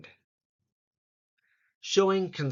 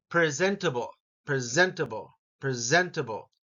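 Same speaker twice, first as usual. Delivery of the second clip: each "presentable" leaning on its second syllable; stress on second syllable. Shown as a demonstration. Teacher repeating a word for learners, stressed second syllable. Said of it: "that gets the emphasis".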